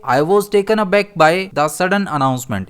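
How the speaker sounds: each word of the sentence read very slowly and clearly; teacher dictating an example sentence. Shown as a demonstration. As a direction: read it out slowly so learners follow. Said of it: "इसे हम किस तरह use करेंगे".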